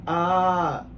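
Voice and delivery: a slow, half-hearted stab at Irish; attempted Irish accent. Quoting the bride, a weak slowed Irish accent. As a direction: try an Irish lilt and barely land it. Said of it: "Was that your Irish accent?".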